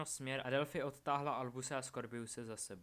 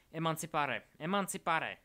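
two loud, raised incantations; spell casting; 5 semitones higher, 9 dB louder than usual. A narrator's reading. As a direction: call out the spell firmly, twice. Wizard casts a freeing spell twice.

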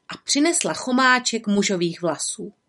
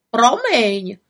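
quacked like a duck's bill; quacking fox; 3 semitones higher, 5 dB louder than usual. Acted. Fox with a duck's beak quacks an apology. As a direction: quack the word through a beak. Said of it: "káchala liška kachním zobákem".

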